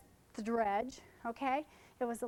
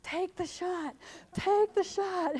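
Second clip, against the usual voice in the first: urging assistant; 6 semitones higher, 6 dB louder, slower than usual. Retold or imitated. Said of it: "my assistant's standing there going".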